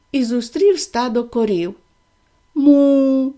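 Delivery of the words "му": loud moo; a cow mooing. Acted. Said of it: "сказали корови".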